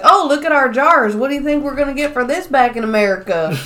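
boastful trash talk. Retold or imitated. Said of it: "the Americans are talking shit".

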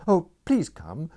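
high, loud, breathless plea; gabbling. A narrator's reading. Girl begging a stranger to come, high and gabbling. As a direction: rush the words out in panic. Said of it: "she gabbled".

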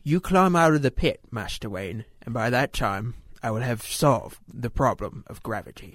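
a hint of Alfred's solemn butler; Alfred impression. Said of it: "melding two Nolan films into one".

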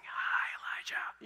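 a mock creepy whisper in the ear. Pastor mocks God whispering to Elijah, creepy whisper. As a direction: breathe it like a creepy voice at your ear. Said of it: "like a creepy whisper over your right ear".

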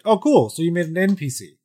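high mock enthusiasm; fake-cheery put-down; dry sarcastic. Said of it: "I always say, like".

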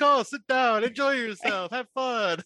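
high, sing-song welcome; welcoming host voice. Retold or imitated. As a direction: greet guests like an eager old host. Voicing welcoming old man.

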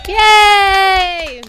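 high, drawn-out cheer. Real, not acted. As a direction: let out one long, high hooray. Cheering the departing guest.

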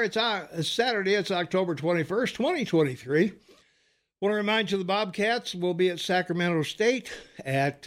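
slightly winded after rushing; catching breath between phrases. Real, not acted. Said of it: "sorry I'm out of breath".

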